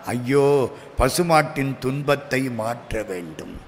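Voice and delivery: low, soft inner voice; quiet acted compassion; compassionate resolve. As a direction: murmur with pity, as if thinking aloud. Saint's compassionate thought, acted.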